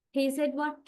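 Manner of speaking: "what" lifted lightly, asking for a repeat; rising echo question. Shown as a demonstration. Listener asks to clarify what was missed, "what" rising. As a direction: query it, "what" left open. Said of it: "you would be rising your".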